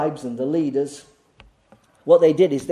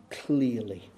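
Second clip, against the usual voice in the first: "clearly" said softly, lower and savoured; fond quiet word; 3 semitones lower, 6 dB quieter than usual. Real, not acted. Preacher fondly savouring his favourite word, softly. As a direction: linger lovingly on "clearly". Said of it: "I love that word in the N I V".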